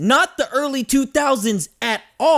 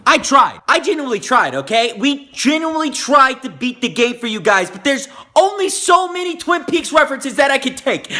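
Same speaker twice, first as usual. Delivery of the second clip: louder, frustrated rant; exasperated rant; 5 semitones higher, 3 dB louder than usual. Real, not acted. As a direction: vent your frustration at the game. Exasperated rant about the game.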